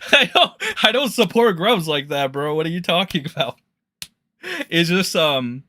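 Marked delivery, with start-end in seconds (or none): 0.1-3.6 laughing through the friend's words; laughing quote. Retold or imitated. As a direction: quote him while cracking up. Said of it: "He's like".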